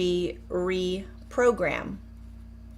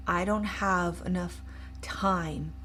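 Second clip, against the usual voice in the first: slow cancel thought; 2 semitones lower, 5 dB quieter than usual. Shown as a demonstration. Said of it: "You are gonna say the cancel".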